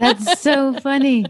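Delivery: laughing while speaking, slowly. Real, not acted. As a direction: let the laugh carry the words. Laughing at a funny story.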